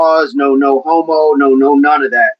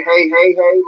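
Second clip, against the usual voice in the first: lightly voiced sitcom catchphrase; a hint of TV catchphrase delivery; Good Times catchphrase. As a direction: toss out a sitcom-style greeting. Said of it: "like, as in Good Times?".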